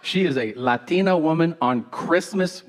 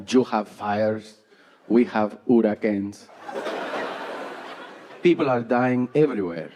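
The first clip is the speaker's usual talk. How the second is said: mom voice; 4 semitones lower than usual. Retold or imitated. Mom lectures slowly.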